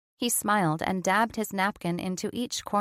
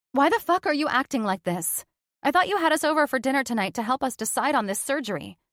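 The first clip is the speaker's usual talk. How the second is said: frustrated; 5 semitones higher, faster than usual. Acted. Jessica's frustration boils over.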